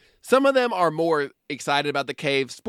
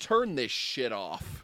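muttered disgust; 4 semitones lower, 8 dB quieter, slower than usual. Retold or imitated. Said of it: "And I was like".

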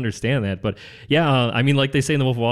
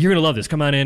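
higher, louder, excited sell; eager coaxing; 5 semitones higher, 4 dB louder, faster than usual. Retold or imitated. Young salesman urging his wife to join him, eager coaxing. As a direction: re-enact keen young enthusiasm.

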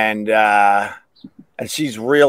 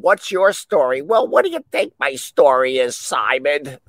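mock talking head. Imagined talking head on stage.

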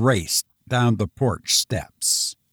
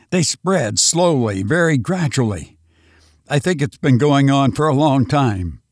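frantic survivor Lois; 2 semitones higher than usual. Acted. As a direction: rush the story out, still haunted. Lois explains his theory.

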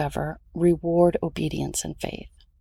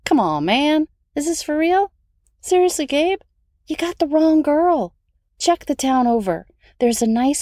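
amused disbelief. Retold or imitated. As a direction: act out laughing disbelief. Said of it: "my response would have sounded more like".

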